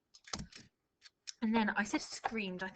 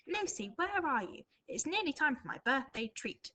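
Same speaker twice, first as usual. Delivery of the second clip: grandpa calling; 5 semitones higher than usual. Acted. Teacher rereads grandpa's speech.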